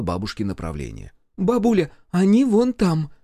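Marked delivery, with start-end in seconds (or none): 1.4-3.1 loud, high shout to grandma; calling out. A narrator's reading. Granddaughter shouting directions to grandma, loud and high. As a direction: point the way, calling over the engine.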